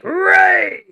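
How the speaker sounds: sudden loud high shout of the word Raid!; hype shout. Real, not acted. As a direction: yell it out like a hype call to chat. Hyping the incoming stream raid.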